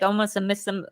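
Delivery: ordinary talk, nothing marked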